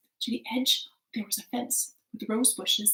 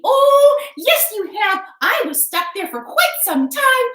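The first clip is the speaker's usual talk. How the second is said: fairy voice; 11 semitones higher, 13 dB louder than usual. Acted. Fairy speaks.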